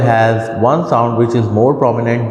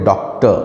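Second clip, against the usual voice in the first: डॉक्टर with a little weight on डॉक; stress on first syllable; 4 semitones lower, faster than usual. Shown as a demonstration. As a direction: lean slightly on the डॉक of डॉक्टर. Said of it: "एक sound को थोड़ा ज़ोर देकर कहा जाता है".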